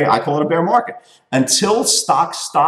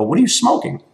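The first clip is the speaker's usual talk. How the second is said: high, laughing, not vicious; laughing jab; 10 semitones higher than usual. Retold or imitated. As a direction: tease him while laughing. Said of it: "I didn't do it in a, in a vicious way".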